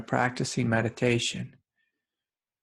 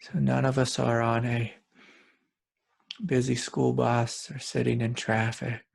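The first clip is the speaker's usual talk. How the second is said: calm guided meditation with long pauses; unhurried meditation guide, spacious pauses. Real, not acted. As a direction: lead listeners gently inward, leaving long silences between phrases.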